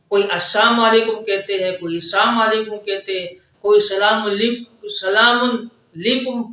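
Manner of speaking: سلام علیکم mumbled as "salam unlikum"; slurred greetings; strange wrong salams. Shown as a demonstration. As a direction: imitate the garbled versions people say. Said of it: "عجیب قسم کے الفاظ کہتے ہیں".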